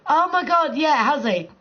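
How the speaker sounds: normal talking voice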